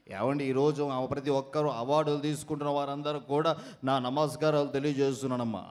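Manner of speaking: low, put-on elder's greeting; mimicry voice. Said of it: "unique mimicry concept". (తగ్గు స్థాయిలో mimicry గొంతు)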